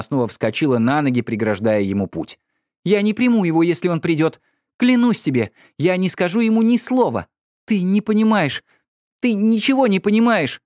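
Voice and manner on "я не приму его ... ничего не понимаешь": high, loud impassioned protest; wife vowing loudly to husband. A narrator's reading. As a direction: swear it fiercely. Wife's loud vow.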